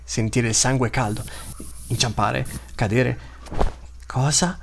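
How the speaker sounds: lightly voiced hungry beast, broken simple words; hunting beast's thoughts. The pelle lama hunting the Vastaia, lightly voiced hungry beast thoughts. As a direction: think like a greedy predator stalking prey.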